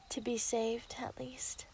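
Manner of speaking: a quiet, whispered threat; menacing whisper. Acted. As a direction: hush it like a secret threat. Villain threatens hostage's life.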